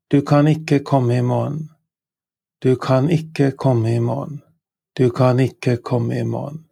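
"Du kan ikke komme i morgen" said clearly with a rise at the end; Norwegian model sentence. Shown as a demonstration. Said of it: "You cannot come tomorrow".

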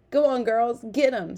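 loud, high cheer; egging them on. A narrator's reading. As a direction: call out to spur the chasers on. Guard cheering on the chase.

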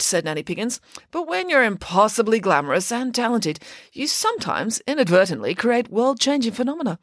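high, grand boast; boastful pig nanny. Acted. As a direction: crow about it proudly.

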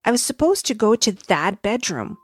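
a high, quick little star; sparkly tinkling star voice. Acted. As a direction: rush it like an excited little star. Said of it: "said the little star".

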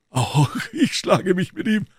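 blustering musketeer; a hammed-up Porthos. Porthos voiced.

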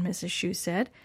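plain reading voice

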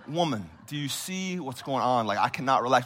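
incredulous, pained comeback; as if she can't see the obvious; exasperated retort. Retold or imitated. Pastor in pain snapping back at nurse, incredulous. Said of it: "I'm like".

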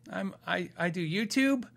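retold awkward hesitation; hesitant admission. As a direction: stumble into it, as if unsure how to say it. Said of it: "I had trouble with this".

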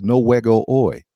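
Spanish-speaking cook. Retold or imitated. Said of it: "So in other words, no game today".

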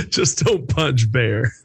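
slow, laughing mimicry; laughing repeat. Host repeats the Russian warning, laughing slowly. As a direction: chuckle through the quoted line. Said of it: "repeats the guest's quote".

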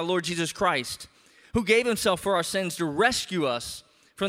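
measured, formal reading of the epistle; scripture reading. Acted. Pastor reads Galatians aloud to the church, formal reading. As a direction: read it out to the congregation with weight.

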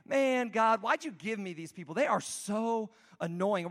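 hammed-up annoyance, stretching the last words; exasperated complaint, lightly acted; mock exasperated Moses. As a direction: grumble at God in mock anger. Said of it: "Moses gets angry too".

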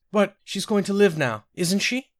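high, pleading tearful question. A narrator's reading. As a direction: beg for reassurance through tears. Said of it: "Sinetta burst into tears".

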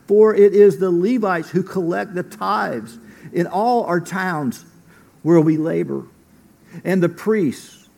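measured public reading of scripture. Acted. Pastor reading Nehemiah to the congregation, formal scripture reading. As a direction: read the passage to the church, steady and formal.

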